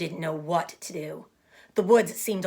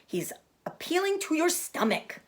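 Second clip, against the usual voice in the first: high, louder goose voice; goose warning; 6 semitones higher, 3 dB louder than usual. Acted. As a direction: warn him off urgently. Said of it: "said the goose".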